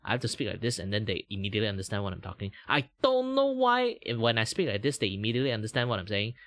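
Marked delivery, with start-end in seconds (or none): 2.7-6.3 strong Malaysian English accent. Shown as a demonstration. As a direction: Malaysian English, quick and singsong. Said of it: "Just different pronunciation".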